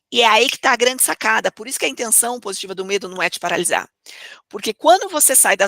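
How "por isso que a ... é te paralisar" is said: whisper. Shown as a demonstration. Key point said aside.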